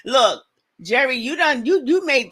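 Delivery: laughing mock scolding. Real, not acted. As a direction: laugh while scolding a friend playfully. Laughing at a viewer's comment.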